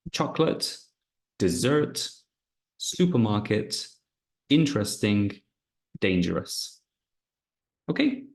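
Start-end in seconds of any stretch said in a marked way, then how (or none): 0.1-6.8 each word with its stressed syllable clear; practice list. Shown as a demonstration. Teacher leading stress practice. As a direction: read them for students to repeat. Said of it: "So practice".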